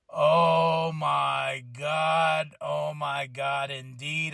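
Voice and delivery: very slow, drawn-out amazement; re-enacted awe. Fan reacting to Mommy confronting Paul Heyman, drawn-out awe. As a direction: stretch each word in awestruck wonder.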